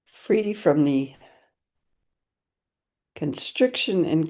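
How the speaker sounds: measured prayer, phrase by phrase with long pauses; prayer recitation. Acted. Teacher opening a session with a refuge prayer, measured recitation. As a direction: recite it as a vow, letting each phrase settle.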